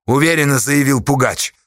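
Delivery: ordinary talk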